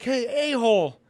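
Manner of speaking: retold call-out. Driver calls after the rival who just passed him, taunting.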